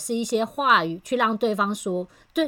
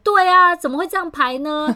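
high, loud alarmed exclamation; mother startled by the bad schedule, raising her voice high; anxious outcry; 7 semitones higher, 6 dB louder than usual. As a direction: blurt it out, suddenly worried and indignant. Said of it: "他就很急哦".

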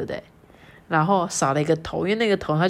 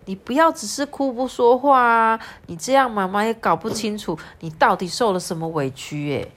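higher, louder anxious mother; worried mom; 5 semitones higher, 4 dB louder than usual. Acted. Mom pleading with crying Lala, anxious. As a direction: coax a crying child to speak. Reading mom's lines.

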